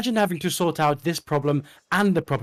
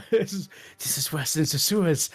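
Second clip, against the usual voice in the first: laughing disgust; 3 dB quieter than usual. Acted. Player reacts in character to the smell.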